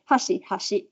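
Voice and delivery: first HASHI falling, second HASHI rising; fall then rise. Shown as a demonstration. Lecturer comparing Japanese with English stress, HASHI falling then rising. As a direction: flip the pitch between HASHI and HASHI. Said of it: "superficially, it's a little bit like".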